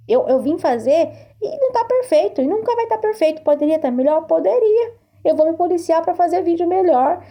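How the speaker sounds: real emotion cracking through; voice breaking. Real, not acted. Admitting on video her mistakes, voice breaking.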